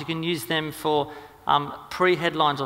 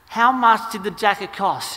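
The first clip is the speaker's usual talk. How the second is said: acted husband losing patience, louder, higher, slow; exasperated demand; 5 semitones higher, 6 dB louder, slower than usual. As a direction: press the question slowly and loudly, mock exasperation. Husband's exasperated third demand for price.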